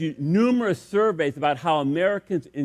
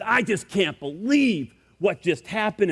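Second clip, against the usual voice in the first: mildly raised, put-on grousing; feigned anger; 4 semitones higher than usual. Ballplayer fakes anger at his friend, mock grousing. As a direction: grouse in mock disbelief, pitch lifted. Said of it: "he pretends to be angry".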